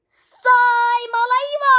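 spell incantation shout. Acted. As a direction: draw out the magic word like a wizard.

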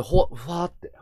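airy "fuwaa" as breath goes; imitated faint breath. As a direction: mimic breath slipping away. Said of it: "息吸った瞬間に".

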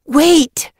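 sharp, loud, high command; snapped. A narrator's reading. Apprentice blocks friend from charging off, snapping. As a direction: snap it out to stop someone. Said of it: "she snapped".

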